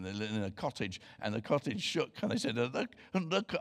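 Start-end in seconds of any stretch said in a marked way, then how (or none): 2.6-3.5 put-on a half-hearted try at a Scottish accent; barely Scottish, mostly his own voice; failed Scottish accent. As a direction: gives up on the Scottish accent at once. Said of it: "I can't do a Scottish accent".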